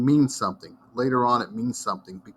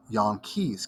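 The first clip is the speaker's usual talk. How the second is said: Jan Kees said as yahn kays in a Dutch accent; Dutch-accented Jan Kees, Kees with a long e; thick Dutch accent. Shown as a demonstration. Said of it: "they had this really thick accent".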